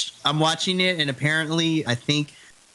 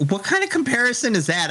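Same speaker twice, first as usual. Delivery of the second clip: high-pitched incredulous protest; incredulous objection; 9 semitones higher, faster than usual. Retold or imitated. Reacting to a comparison on the broadcast, high and incredulous. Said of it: "I'm like".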